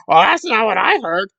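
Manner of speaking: mock snooty. Imitating Lara's reply.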